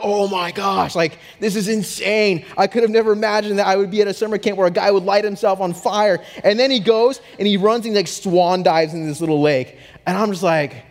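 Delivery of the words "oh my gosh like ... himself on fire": amazed. Retold or imitated. Retelling awe at fire stunt.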